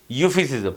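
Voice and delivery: یوفیسزم said with a silent E, opening on "yu"; silent E pronunciation. Shown as a demonstration. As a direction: start یوفیسزم with a "yu" sound, no separate E. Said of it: "ای سائلنٹ ہے". (یوفیسزم میں ای سائلنٹ، شروع "یو" کی آواز سے)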